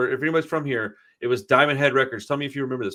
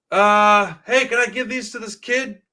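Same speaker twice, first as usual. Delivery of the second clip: imitating the punk's ask; 7 semitones higher, 4 dB louder, slower than usual. Punk asks clerk about tapes.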